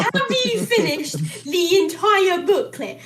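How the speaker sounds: put-on slow, lightly done African accent; mock African accent. Retelling the teacher's question in a light African accent. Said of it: "she went African mid-sentence".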